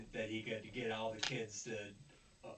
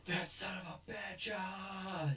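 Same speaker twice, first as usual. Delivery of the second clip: retold anger; 6 semitones higher, slower than usual. Cop looks at the lottery ticket, mock mad. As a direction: imitate someone cursing on finding they were tricked. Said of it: "He gets mad".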